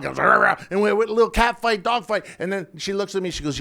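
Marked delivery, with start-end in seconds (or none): 0.3-0.6 quick mock barking; imitated dog growl.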